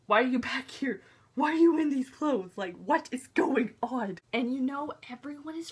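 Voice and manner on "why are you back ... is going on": louder, punchy mock bewilderment; mildly hammed-up disbelief; baffled demand. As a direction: fire off questions in acted confusion. Acting out her baffled reaction.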